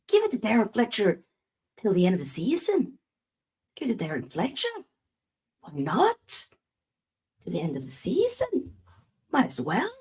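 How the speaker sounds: a weak attempt at a Manchester accent; lightly put-on Manc accent, casual shrug; bad Manc accent. Fan mocking the club's choice of manager, in a bad Manc accent. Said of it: "my horrible attempt to do a Manc accent".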